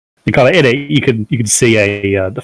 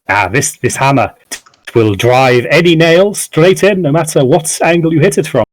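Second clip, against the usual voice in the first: put-on elderly merchant, pitching; 3 semitones higher than usual. Old merchant shows off a hammer to a customer, lightly voiced pitch. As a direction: talk up the goods as an old peddler.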